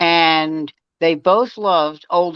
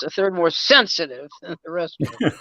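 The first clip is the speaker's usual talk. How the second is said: lightly voiced Barry, savouring each word; imitating Barry's delivery; 4 dB quieter than usual. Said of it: "he would always do it like this".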